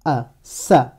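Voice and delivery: « a » seul, puis « sa » d'un bloc; syllabe décomposée. Shown as a demonstration. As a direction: montre la voyelle « a », puis joins-la au s : « sa ». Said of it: "associé à la voyelle". (« a, sa » détaché comme en leçon)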